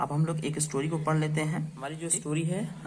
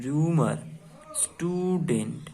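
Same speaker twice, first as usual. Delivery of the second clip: slow clear reading; slower than usual. Shown as a demonstration.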